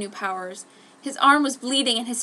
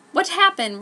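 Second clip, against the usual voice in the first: concerned; 8 semitones higher, 7 dB louder than usual. A narrator's reading. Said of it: "Ryo asked, concerned".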